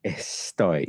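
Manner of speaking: Estoy said with the S swallowed, throat closed; Estoy with no S breath, closed throat. Shown as a demonstration. Teacher shows the throat-closed S in Estoy. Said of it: "If you have your throat closed".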